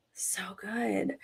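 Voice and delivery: awed soft whisper. Real, not acted. Whispering admiration for Kevin's game. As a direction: breathe it out in awe.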